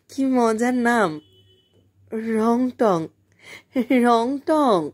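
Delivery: dragging the name out dreamily; drawn out. A narrator's reading. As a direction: stretch each syllable of রংটং like a child playing with the word. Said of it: "ও টেনে টেনে বলল".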